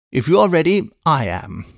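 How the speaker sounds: a brisk English housekeeper calling out; a hint of a bustling maid; Miss Pross.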